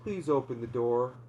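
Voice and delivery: a mildly eerie possessed mother pleading; weird demon voice. Acted. Possessed mom coaxing her kids at the door, lightly creepy. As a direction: coax through the door like something wearing mom's voice. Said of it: "In that weird voice?".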